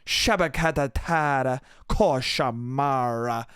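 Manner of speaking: low, slowing nonsense syllables; mock the models' gibberish, sinking and stretching at the end; imitated pure gibberish. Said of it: "Pure fucking gibberish".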